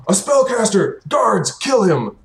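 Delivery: high-pitched call to the guards; alarmed cry. Acted. Villain spots a spellcaster and calls his guards, alarmed shout. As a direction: raise the alarm and command the kill, pitched high.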